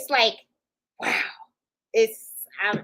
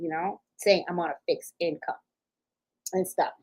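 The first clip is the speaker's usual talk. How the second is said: softer, half-whispered repeat of "fixed income"; savoring it quietly; 5 semitones lower, 5 dB quieter than usual. Real, not acted. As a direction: say "fixed income" softly to yourself, pleased. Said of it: "It felt kinda good saying that".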